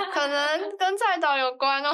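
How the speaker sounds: words squeezed out through laughter; trying not to laugh. Real, not acted. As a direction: say it while fighting back laughter. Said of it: "都在憋笑".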